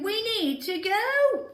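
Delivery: high, loud and urgent; urgent call to leave; with expression. Shown as a demonstration. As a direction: say it like you really must rush off now. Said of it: "With some expression".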